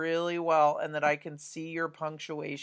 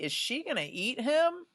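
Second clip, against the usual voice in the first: high rising question, much higher; worried question; 9 semitones higher than usual. Acted. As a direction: lift "him" way up as a worried question. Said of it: "the question could be".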